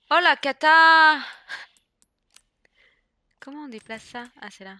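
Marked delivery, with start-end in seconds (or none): 0.1-1.2 slow, loud, high cry of disaster; loud slow dismay. Real, not acted. Disaster in inventory.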